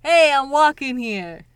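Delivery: loud, slow imitation New York holler; attempted New York accent. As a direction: copy a New York street shout, badly. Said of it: "I don't have this accent".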